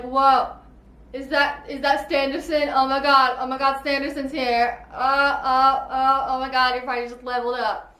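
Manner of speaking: loud, gushing fangirl squeal; starstruck friends. Retold or imitated. Best friends spotting an author at a party, loud starstruck gushing. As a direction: freak out over a famous author at the door. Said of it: "they're like".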